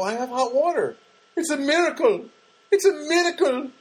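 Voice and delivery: high, loud joyful proclaiming; mock jubilant. Tenant telling the landlady the water's back, high and loud. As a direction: announce a miracle, high and loud.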